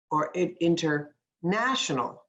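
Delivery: "international" with the stress on "na", in-ter-NA-tion-al. Shown as a demonstration. Teacher showing students the right word stress, "international" stressed on NA. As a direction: hit "na" in "international" clearly. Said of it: "I put the stress in the right place".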